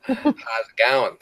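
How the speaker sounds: slow, loud mock-Aussie greeting; caricature Australian accent. Shown as a demonstration. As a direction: stretch it out in a hammed-up Australian accent. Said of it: "not a bad accent right there".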